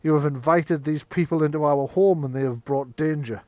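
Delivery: heated, indignant outburst; angry Magnus. Acted. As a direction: accuse your hosts in front of everyone. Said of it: "Magnus stands up and says".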